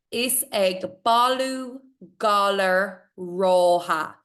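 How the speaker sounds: slow, measured recitation; poem reading. Acted. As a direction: read each word carefully, with pauses.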